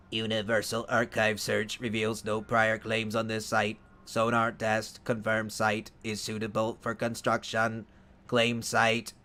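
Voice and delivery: flat, even robotic readout; computer voice. Shown as a demonstration. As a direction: read it like a computer. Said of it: "Maybe I should do that like a computer".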